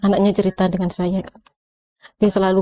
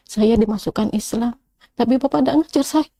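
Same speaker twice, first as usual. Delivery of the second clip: rising reproach; 6 semitones higher than usual. Retold or imitated. Wife accusing her husband of abandoning her, building reproach. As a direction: let the hurt climb word by word to a high accusation. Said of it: "saya bilang gitu".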